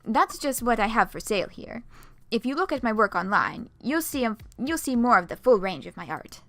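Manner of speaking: lightly voiced French accent, half German; a faint put-on French accent for Ramel; smug gallery owner, faint French accent. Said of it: "My French accent sounds kind of German".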